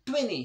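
ट्वेंटी as twenny, T dropped; ट्वेंटी with a double N; British pronunciation. Shown as a demonstration. Teacher showing students, ट्वेंटी without the T.

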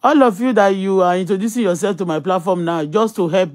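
loud, exasperated scolding; angry rant. Real, not acted. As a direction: scold strangers asking for money.

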